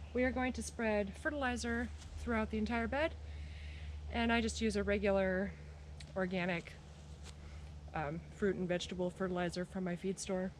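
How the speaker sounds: audibly winded while talking; heavy breathing. Real, not acted. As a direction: talk through heavy asthmatic breaths. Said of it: "Sorry about my heavy breathing".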